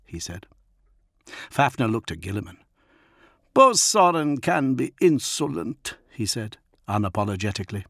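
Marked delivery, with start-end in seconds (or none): 3.5-6.0 a touch higher, unapologetic chieftain; wolf leader excusing his man; lightly voiced wolf lord. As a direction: shrug off the insult. Fafnir to Gilliman.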